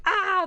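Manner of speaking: short high mock scream; mock panicked cry. Palace people react to the assassin, mock panicked cry. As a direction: give a quick, high cry of pretend panic.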